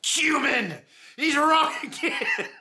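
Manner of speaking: high, mocking sing-song with laughter; mock Newman-style greeting. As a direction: sneer the name through a laugh. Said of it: "So for me, it's".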